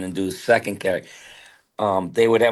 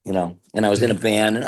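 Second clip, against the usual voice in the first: usual speaking voice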